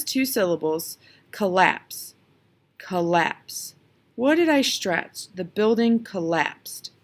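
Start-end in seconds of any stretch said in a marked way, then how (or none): 1.3-3.8 "collapse" stressed on LAPSE; light first syllable, firm second in "collapse"; stress on last syllable. Shown as a demonstration. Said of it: "I stressed the last one". 5.3-6.9 "collapsed" stressed on LAPSED, unhurried; slow sentence landing on the LAPSED of "collapsed"; stress on last syllable. Shown as a demonstration. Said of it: "I stressed the last one".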